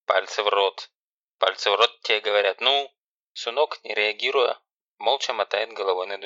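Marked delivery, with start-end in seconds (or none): 0.0-0.9 louder barked order; sharp, loud command. Acted. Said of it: "командным голосом". 1.4-2.9 louder, pushing command; loud, impatient bark; insistent command. Acted. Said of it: "командным голосом".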